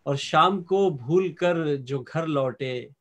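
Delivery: slow, lingering verse with stretched words; ghazal recitation. Acted. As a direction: present each half-line to the mushaira audience. Poet recites ghazal couplets.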